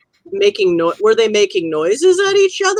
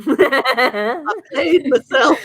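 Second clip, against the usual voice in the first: slow, drawn-out words through laughter; laughing at himself; 5 semitones higher, much slower than usual. Real, not acted. Player laughing at his own honk pun, slow and amused. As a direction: laugh out the self-own, slowly.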